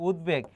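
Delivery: "উদ্বেগ" said ud-beg with the b sounded; b kept. Shown as a demonstration. Teacher showing students the retained b, "উদ্বেগ" as ud-beg. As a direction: keep a clear b after d in "উদ্বেগ". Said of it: "ব ফলার উচ্চারণ বহাল আছে".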